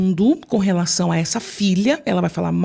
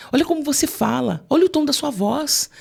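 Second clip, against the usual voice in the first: higher, sneering put-down of the wife; mocking scold; 5 semitones higher than usual. Narcissist belittling his wife, sneering scold. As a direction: imitate a narcissist belittling her voice.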